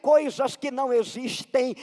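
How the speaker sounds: emphatic sermon delivery; preaching. Acted. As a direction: drive the point home to the congregation. Preaches at full force.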